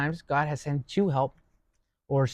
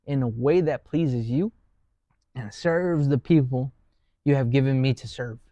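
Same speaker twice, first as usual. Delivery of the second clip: prayer. Shown as a demonstration. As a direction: say the prayer once more, unhurried. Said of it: "And I'll say that again".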